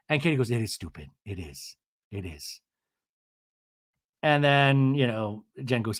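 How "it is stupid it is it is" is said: low, soft imitation; subdued agreement. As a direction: drop it low and fade out quietly. Retold subdued agreement in quarrel.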